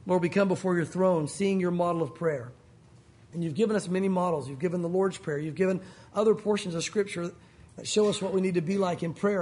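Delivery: closing prayer. Real, not acted. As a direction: lead the church in prayer, pitched low.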